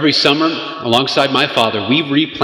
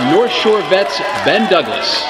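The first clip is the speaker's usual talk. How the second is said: announcer shout; 4 semitones higher than usual. Acted. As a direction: call the name out to the crowd. Emcee announcing sponsor.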